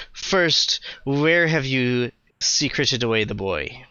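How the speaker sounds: lightly sneering, pompous; a hint of a smug lawman; sneering official. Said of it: "he looks at you and kind of sneers".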